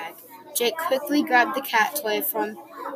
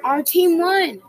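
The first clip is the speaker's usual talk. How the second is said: cheering; 6 semitones higher, 4 dB louder than usual. A narrator's reading. Crowd cheering the win.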